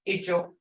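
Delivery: "Ijo" short, without much tone; short vowel. Shown as a demonstration. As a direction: keep the first vowel of "Ijo" brief. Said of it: "you don't have much of a tone".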